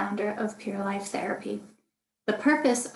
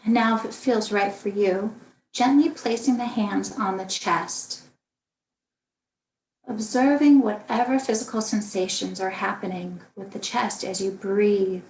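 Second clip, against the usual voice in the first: calm, unhurried meditation guidance with long pauses; guided meditation. Acted. Meditation teacher guiding listeners through a body scan, calm and spacious. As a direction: lead gently through the body, leaving room to breathe.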